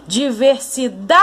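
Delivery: long-distance call, stretching the stressed DA; calling out a word. Shown as a demonstration. Teacher calls a faraway word to reveal its stressed syllable, calling out. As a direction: call DIVERSIDADE as if to someone far away, DA held long. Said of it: "eu vou gritar essa palavra".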